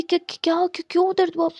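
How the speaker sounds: a worried sister panicking; panicked. Acted. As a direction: rush it in alarm. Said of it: "Payal hyper हो जाती है".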